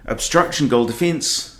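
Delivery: mock New Zealand netball umpire's call. Streamer imitating netball umpires, New Zealand accent. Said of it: "All netball umpires seem to be from New Zealand".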